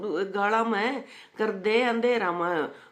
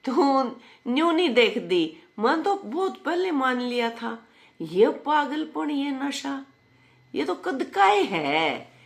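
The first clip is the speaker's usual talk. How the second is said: raised, high voice answering back; high, animated comeback; high-pitched retort; 6 semitones higher than usual. Real, not acted. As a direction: lift the voice high in protest. Mock-protesting reply to the comment.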